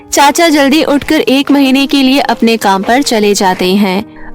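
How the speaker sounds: ordinary delivery, nothing marked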